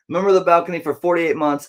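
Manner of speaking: announcer retake. Pretend. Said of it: "I gotta get this right".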